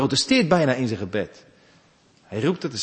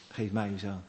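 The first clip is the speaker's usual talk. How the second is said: hushed repeat; 6 semitones lower, 11 dB quieter, faster than usual. Acted. Repeated, softer plea.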